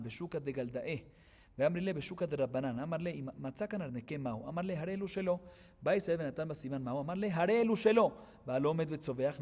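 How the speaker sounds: steady recited cadence for the Aramaic passage; Talmud text reading. Acted. Teacher reciting the Gemara passage to students, recited cadence. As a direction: read it out like a study-hall chant.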